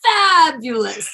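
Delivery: drawn-out, high, loud gush of fabulous. Real, not acted. Answering the interviewer's quick question, drawn-out loud gush. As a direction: sing the word out, slow and soaring. One-word rapid-fire answer.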